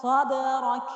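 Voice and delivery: صدرک with a heavy, full ṣād; full heavy sad. Shown as a demonstration. Teacher showing the full ṣād in صدرک. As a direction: recite صدرک with a thick emphatic ṣād.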